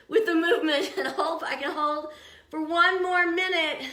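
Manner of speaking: strained, laughing while holding a plank; straining. Real, not acted. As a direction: push the words out under effort.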